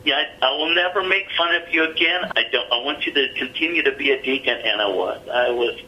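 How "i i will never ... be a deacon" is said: high-pitched retold apology; imitating tearful pleading. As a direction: imitate a man pleading through tears, voice pitched up. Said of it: "Stood there and bawled his eyes out".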